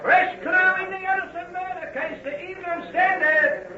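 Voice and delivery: newsboy cry. Acted. Newsboy crying headlines.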